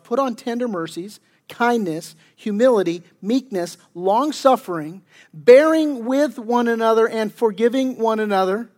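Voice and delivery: deliberate reading, slowing at the verse's close; scripture reading. Real, not acted. Pastor reading Colossians to the congregation, deliberate scripture reading. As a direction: read out the list of virtues with weight.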